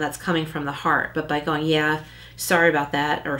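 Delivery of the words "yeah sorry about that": offhand, insincere sorry; lightly sarcastic shrug of a sorry. Shown as a demonstration. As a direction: throw the apology away. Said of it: "that's sarcastic".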